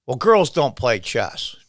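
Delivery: mild gruff retort, slowed down; a lightly imitated grumpy janitor brushing her off; slow, understated gruff dismissal; gruffly. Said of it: "he says really gruffly".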